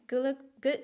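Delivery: stumbling over words with laughter; struggling to speak. Real, not acted. Reader fumbling advice to viewers, struggling and laughing. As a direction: laugh while tripping on a repeated start. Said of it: "I'm just struggling".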